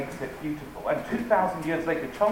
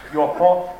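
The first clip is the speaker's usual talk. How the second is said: lyric declaimed much louder, half laughing; mock-grand recital; 7 dB louder, slower than usual. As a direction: belt it out like sacred verse, cracking up. Mock-solemn recital of pop lyric.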